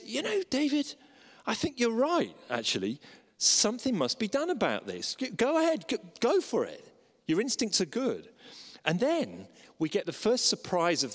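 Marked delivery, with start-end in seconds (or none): 0.0-8.3 hearty Nathan. Retold or imitated. Preacher voices Nathan's reply.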